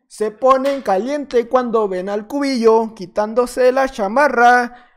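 drawn-out, slow suggestive delivery; slow mock-seductive drawl; slow tease. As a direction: drag it out like a tease.

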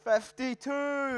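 raffle caller. Real, not acted. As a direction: call the winning number out to the room. Drawing raffle number, calling out.

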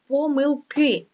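помилки stressed on the final И, slow and high; stress on last syllable. Shown as a demonstration. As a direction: draw out the ending of помилки. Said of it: "наголос іде тільки на останню голосну".

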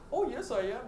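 lightly imitated Indian accent; retold answer with a hint of Indian accent. Indian shop owner answers a customer, light Indian accent. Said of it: "bukod nga pala sa mga Indian accent".

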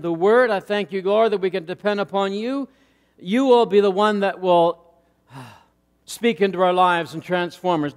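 earnest prayer, gently rising on the pleas; preacher praying aloud before the sermon; pulpit prayer. Acted. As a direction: pray over the congregation. Leads the congregation in prayer.

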